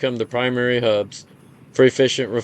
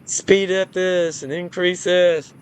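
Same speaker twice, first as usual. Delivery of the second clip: higher-pitched, offhand imitation of a sales pitch; mock nonchalant; 6 semitones higher than usual. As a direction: toss it off in a put-on, raised voice. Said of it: "They're so nonchalant".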